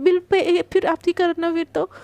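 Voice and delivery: cheeky, playful jab about the bill; lightly comic cheeky quip; comedic cheeky tone. Acted. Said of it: "एकदम comedy वे में बोलती है".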